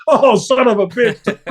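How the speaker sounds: high, drawn-out mock wail of dismay. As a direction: wail it slowly in exaggerated despair, breaking into a laugh. Acting out own reaction to bad news.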